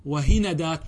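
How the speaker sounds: وهندات said "wa-hinadāt", a after the n; fatha on the nun. Shown as a demonstration. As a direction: open the n of وهندات to "na". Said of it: "بالفتح". (وهندات بفتح النون)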